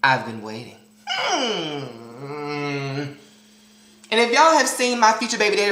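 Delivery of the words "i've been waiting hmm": lower, crooning charmer voice; lightly voiced smooth suitor. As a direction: croon it like a smooth ladies' man. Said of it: "And then".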